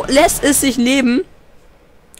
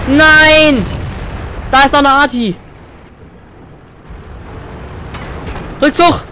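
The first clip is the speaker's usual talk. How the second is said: alarmed shout; 5 semitones higher, 4 dB louder than usual. Real, not acted. Artillery fires on him.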